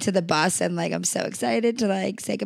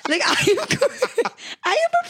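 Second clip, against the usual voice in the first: laughing while talking; 14 semitones higher, slower than usual. Real, not acted.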